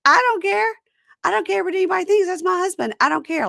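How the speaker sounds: high, loud, defiant outburst; mock heated, insistent protest. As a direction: imitate someone arguing back at the top of their pitch. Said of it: "like, raising her voice".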